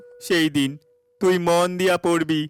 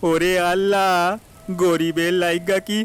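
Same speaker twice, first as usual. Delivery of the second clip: loud anguished plea, louder than his usual talk; desperate cry to God; 2 semitones higher, 4 dB louder than usual. Acted. Farmer cries out to God in the storm, loud and desperate. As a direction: beg heaven to spare the crop.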